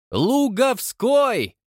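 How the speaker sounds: high, slow triumphant cry. A narrator's reading. Old chairman crowing the surname, triumphant. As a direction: savour the name in triumph. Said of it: "победоносно поднял крючковатый палец".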